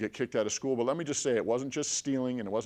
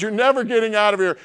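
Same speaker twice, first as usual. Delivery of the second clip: high, very loud menacing bellow; booming put-on voice; 10 semitones higher, 11 dB louder than usual. Hidden man frightening a stranger in the grave, booming shout. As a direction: shout it out to terrify him. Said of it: "in the voice that I said it".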